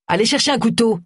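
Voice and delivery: ordering. Acted. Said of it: "ordonna une voix masculine".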